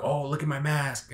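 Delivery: mock a corny villain showing off, only slightly hammed-up; goofy villain. Reviewer imitating how Scarecrow doesn't say it, lightly mocking goofy villain. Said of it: "really goofy, like, villain".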